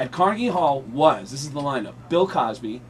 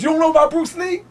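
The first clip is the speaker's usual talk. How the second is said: high, loud mimicked rant; hammed-up impersonation, pitched way up; Tracy Morgan; 13 semitones higher, 6 dB louder than usual. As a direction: proclaim it as a brash comic character. Tracy's Bruce Lee speech, acted.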